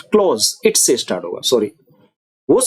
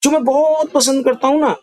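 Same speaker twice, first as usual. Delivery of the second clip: जो मैं बहुत पसंद करता हूँ ना said higher with weight; emphatic focus; 9 semitones higher than usual. Shown as a demonstration. Teacher shows stress to the class. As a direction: press the focused clause. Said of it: "अब मैं किस चीज पर जोर दे रहा हूँ".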